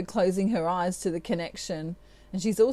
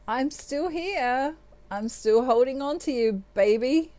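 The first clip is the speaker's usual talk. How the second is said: voicing him tenderly; 5 semitones higher than usual. Voicing him in a tarot reading.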